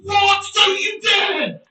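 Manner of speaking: outraged shout. Real, not acted. Streamer shouting at the game's play, outraged shout. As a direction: yell at the screen in disbelief. Reacting to live game moment.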